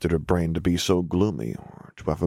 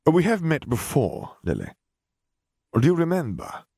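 probing stranger; 9 semitones higher than usual. A narrator's reading. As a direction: lean in and test her memory. The man, probing.

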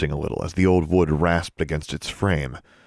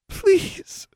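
whispered; 3 dB louder than usual. A narrator's reading. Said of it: "she whispered".

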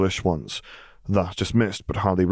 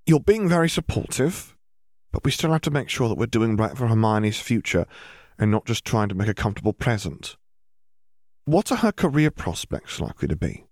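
lightly voiced mother; 3 semitones higher than usual. Mrs Granger voiced in story.

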